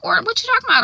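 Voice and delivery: high, disbelieving "what you talking about"; incredulous. Retold or imitated. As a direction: scoff in surprised disbelief. Garrett brushes off Kara's warning.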